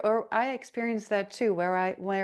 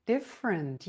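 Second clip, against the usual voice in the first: playful exploring; 5 semitones higher than usual. Acted. Voicing children who explore their own sound, high and playful. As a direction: start way up high and stretch the words.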